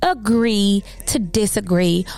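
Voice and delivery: talking with a mouth full of saliva; speaking around a wet, watery mouth. Real, not acted. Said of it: "so my mouth is hella watery".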